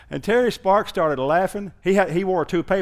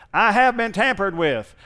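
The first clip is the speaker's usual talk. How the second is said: car alarm voice; 5 semitones higher, 3 dB louder than usual. Retold or imitated. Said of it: "a real tinny sounding voice going".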